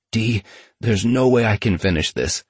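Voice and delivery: talking through a mouthful; words round a bite of burger; mouth full. Retold or imitated. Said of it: "with his mouth full".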